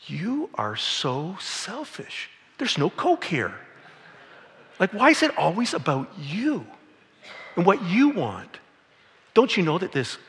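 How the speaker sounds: exaggerated whiny outrage, pitched high and slow; hammed-up indignant complaint about no Coke; mock outrage. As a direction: ham up being offended over missing Coke. Mock angry complaint to colleague.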